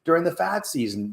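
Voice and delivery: high, firm declaration of healthy choice; proud refusal. Pretend. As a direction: stand tall and declare it. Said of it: "You're being the non-person".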